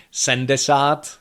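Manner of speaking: sendesát with n and no syllabic m; wrong form. Shown as a demonstration. Teacher admits own sloppy number. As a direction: slur sedmdesát to sendesát. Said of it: "which is completely wrong".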